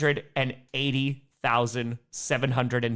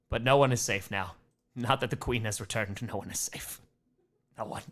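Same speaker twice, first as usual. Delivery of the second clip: horror trailer voice; 6 semitones lower, 7 dB quieter than usual. Pretend. Dramatic doom about the Queen.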